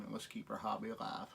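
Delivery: a soft confiding whisper at the end; closing the video in a whisper; whispered sign-off. Real, not acted. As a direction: whisper the last words to the viewers. Signing off the video.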